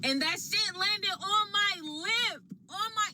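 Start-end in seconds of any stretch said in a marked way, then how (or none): 2.7-3.1 stunned what. Real, not acted. Shocked spit landed on lip.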